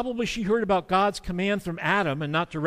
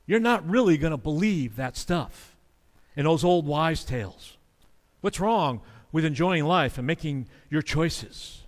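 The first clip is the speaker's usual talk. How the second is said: sarcastic mockery. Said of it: "They get inundated with that kind of sarcasm".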